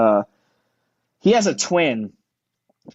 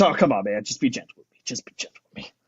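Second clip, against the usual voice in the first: meek plea; 3 semitones lower, 5 dB quieter, faster than usual. Retold or imitated. Patient pleading before nose swab.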